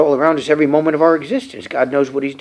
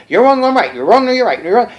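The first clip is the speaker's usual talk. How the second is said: higher, singsong back-and-forth squabble; mock bickering; 7 semitones higher, faster than usual. Preacher mimicking Job's ping pong debate, mock bickering. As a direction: imitate a tit-for-tat argument.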